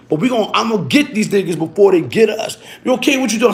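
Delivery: rising, fast urgent warning to a friend. Retold or imitated. Warning his friend about the stick-up kids, urgent and building. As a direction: hurry the warning, heating up as you go.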